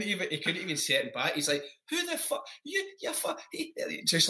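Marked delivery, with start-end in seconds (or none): 1.9-3.7 pure anger. Retold or imitated. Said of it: "like, pure anger".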